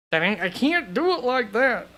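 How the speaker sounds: hammed-up protest with the pitch leaping up; playful exaggerated repeat. Host playfully repeating himself while deliberating over rankings, hammed-up high voice.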